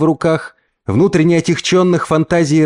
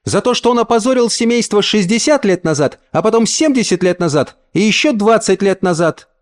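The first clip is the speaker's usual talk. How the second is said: put-on high girlish voice, proud and indignant; a child explaining with pride; proud little girl; 6 semitones higher than usual. A narrator's reading. Girl proudly explains the family feud to her cousins. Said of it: "пояснила с гордостью вторая".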